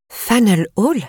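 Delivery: «Hall» monte bien plus haut, en question étonnée; répéter «Faneuil Hall» avec stupeur; incrédule. A narrator's reading. Narratrice stupéfaite répète le lieu. («Faneuil Hall?» incrédule, montée aiguë)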